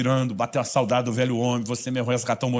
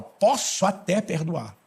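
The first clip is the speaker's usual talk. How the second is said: grudging condition; slower than usual. Retold or imitated. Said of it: "ceder condicional".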